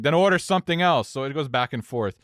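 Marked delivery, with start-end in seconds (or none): 0.0-1.1 louder, raised-pitch mock irritation; exasperated retort, retold; more upset. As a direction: imitate a drunk customer losing patience. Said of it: "he gets more upset".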